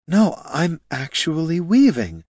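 thrilled, half-protesting; excited. Acted. Loruna insists excitedly.

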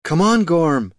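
mild acted shout; calling out. A narrator's reading. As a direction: shout for a straggler to catch up. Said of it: "shouted Loruna".

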